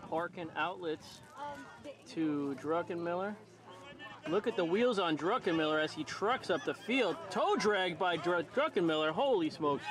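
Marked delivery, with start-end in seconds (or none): 4.3-9.8 excited play-by-play. Real, not acted. Fast break up the field.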